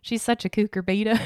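light mock Southern lilt; a hint of Southern US sass. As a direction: toss it off like a Southern put-down. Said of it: "a southern term for".

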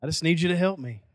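low, quick country-style prayer; imitated country accent in prayer. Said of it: "that's a Joe Lake prayer right there".

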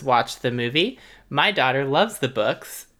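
reads the review, laughter breaking through; can't keep a straight face reading it; laughing while reading. Real, not acted. Reading a funny review aloud.

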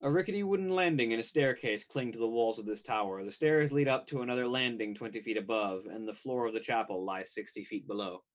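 measured game master description; scene-setting narration. A narrator's reading. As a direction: read out the tower scene to the players.

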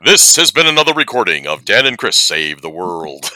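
radio announcer. Pretend. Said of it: "I can do my own damn voice".

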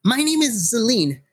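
put-on bright young girl. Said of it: "and says".

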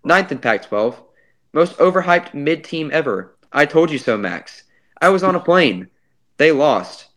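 flat deadpan, no emotion at all; emotionless. Pretend. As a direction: read it like a robot, short and blank. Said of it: "Short sentences only".

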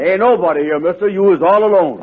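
high panicky fib; nervous bluff. Acted. Andy bluffing the stranger in a high, panicky voice. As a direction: fake calm over panic.

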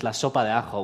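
"la sopa de ajo" in native Spanish pronunciation, "ajo" with a throaty j; Spanish phrase. Shown as a demonstration. Pastor sharing a Spanish saying with the congregation, "la sopa de ajo" in Spanish. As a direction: say "la sopa de ajo" the way a Barcelona local would. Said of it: "we say this in Spanish".

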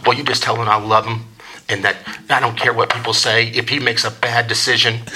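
lightly voiced, understated mom; imitated mom. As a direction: pass on a message as his mom would. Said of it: "This is what it sounds like".

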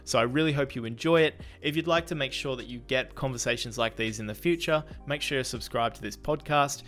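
scripted, upbeat podcast host welcome; podcast intro read. Acted. Host welcomes listeners to the marketing podcast, intro read. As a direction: present the episode to listeners in clear phrases.

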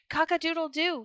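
high, loud rooster crow. Acted. Rooster crowing at the Sultan's window, loud and high. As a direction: crow it out to the whole palace. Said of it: "he cried".

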